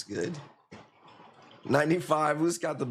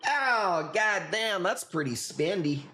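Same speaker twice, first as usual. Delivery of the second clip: higher, mock-shocked at the price; 5 semitones higher, slower than usual. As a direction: play the outraged customer. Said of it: "end it with the spendy".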